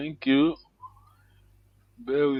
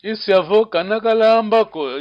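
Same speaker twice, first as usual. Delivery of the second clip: "Isiavo kana kalambako" louder, lifted, falling at the end; wondering tone; 3 semitones higher, 5 dB louder than usual. Shown as a demonstration. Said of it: "You wondering, yes".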